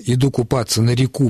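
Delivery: реку with a stressed final у; stress on last syllable of реку. Shown as a demonstration. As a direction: land the beat on ку in реку. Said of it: "звучит". (ударение на последний слог: реку)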